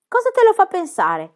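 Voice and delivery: high, loud eager question; newly hopeful. A narrator's reading. Book asking Pippi with new hope, eager. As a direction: ask eagerly, hope rising. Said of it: "chiese Book con novella speranza".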